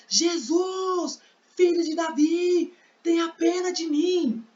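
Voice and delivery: high, drawn-out cry for mercy; grito de súplica. Acted. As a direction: call out pleadingly as the blind beggar, pitch far up. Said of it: "ele começou a gritar". (clamor agudo e suplicante)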